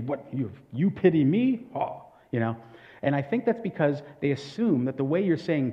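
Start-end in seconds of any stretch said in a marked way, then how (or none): 0.0-1.7 offended anger. Acted. Someone taking offence at being pitied, mildly angry. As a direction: act a touch of affront. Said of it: "somebody would get very angry".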